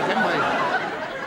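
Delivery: slow, knowing camp drawl, laughing. Acted. Comic to the audience, slow camp drawl. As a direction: stretch it out, arch and camp.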